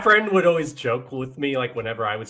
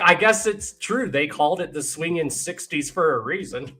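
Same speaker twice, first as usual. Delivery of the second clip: amused disbelief; mock amazement; 4 semitones higher than usual. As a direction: marvel at it. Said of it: "I was like".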